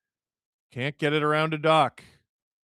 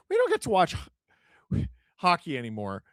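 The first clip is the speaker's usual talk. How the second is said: mock whine; 2 semitones higher than usual. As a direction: parody the complaint in a squeaky whine. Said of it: "Steesen Schiller".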